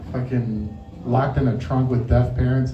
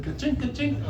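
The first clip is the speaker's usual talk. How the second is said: camera click sound; 8 semitones higher, 9 dB quieter than usual. Retold or imitated.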